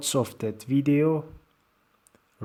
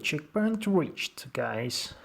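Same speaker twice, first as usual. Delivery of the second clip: John Travolta voice; 2 semitones higher, slower than usual. Pretend. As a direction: announce it like a movie star. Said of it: "Why do I speak like John Travolta?".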